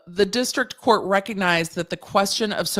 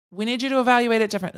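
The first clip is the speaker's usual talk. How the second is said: fast; 5 semitones higher, much faster than usual. Retold or imitated. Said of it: "So they said".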